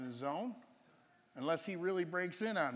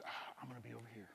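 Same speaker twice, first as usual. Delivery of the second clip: mock wife stepping away; 6 semitones lower, 13 dB quieter, faster than usual. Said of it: "she says".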